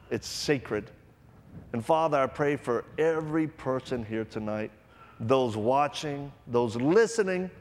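earnest pastoral prayer; closing prayer. Acted. Preacher praying over the congregation, earnest prayer. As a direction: pray over the crowd, rising then softening.

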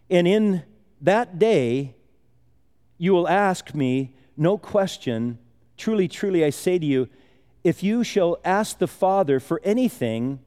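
measured, unhurried Bible reading; scripture reading. Acted. Reads the scripture passage aloud.

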